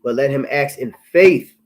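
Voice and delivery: measured, solemn verse reading; scripture reading. Real, not acted. Preacher reading James to brothers, solemn. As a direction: read the verse like from the pulpit.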